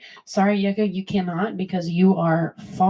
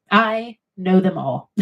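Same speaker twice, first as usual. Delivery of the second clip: slow, laughing boast; laughing, proud; 5 dB louder, slower than usual. Real, not acted. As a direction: chuckle through the brag. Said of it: "Test me".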